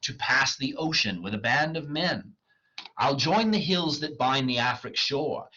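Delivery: measured, declaimed verse; dramatic play reading. Acted. Faustus resolves to await Mephistopheles, declaimed. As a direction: read the speech aloud with theatrical weight.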